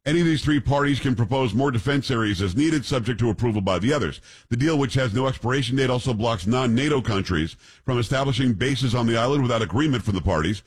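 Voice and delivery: reading a headline aloud; news read. Acted. Reads out a news story.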